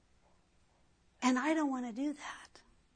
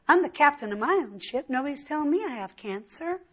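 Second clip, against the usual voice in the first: mocking bravado; 3 semitones higher, faster than usual. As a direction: puff up like a stubborn fool, rattling it off. Preacher mocks the proud unbeliever again.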